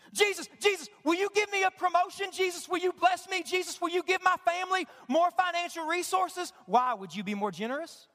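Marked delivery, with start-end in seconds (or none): 0.1-6.5 mock selfish prayer.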